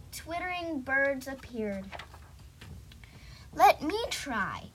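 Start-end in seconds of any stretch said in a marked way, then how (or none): 3.5-4.7 eager, slightly louder plea; mild begging. Acted. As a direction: plead lightly for a turn. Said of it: "Peter begged".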